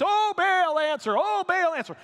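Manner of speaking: loud, high frantic cry; shouting at top of lungs. Retold or imitated. Prophets of Baal screaming for an answer, loud cry. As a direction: bellow it up to the sky. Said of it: "people shouting at the top of their lungs".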